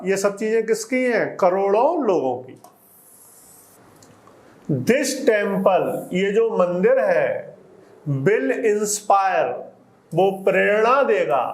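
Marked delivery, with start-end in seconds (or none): 4.7-5.9 slow dictation reading. Shown as a demonstration. Slow reading of the English text. 8.2-9.5 each word drawn out for the class; a teacher spelling out the text slowly; very slow dictation reading. Shown as a demonstration.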